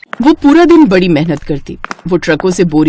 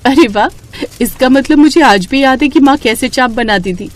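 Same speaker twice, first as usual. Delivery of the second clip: pleasantly surprised; 5 semitones higher than usual. Acted. Lakshmi delighted at her own success.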